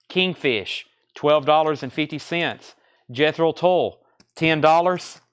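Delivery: lively run-down of titles and prices; auction price calling. Real, not acted. Host offering records to online bidders, auction price calling.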